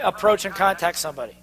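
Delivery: ordinary delivery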